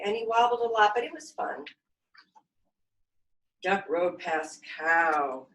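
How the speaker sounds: put-on lively storybook reading for kids; reading to children. A narrator's reading. Yoga teacher reading a picture book to her class, lively. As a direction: read it out bright and animated for little ones.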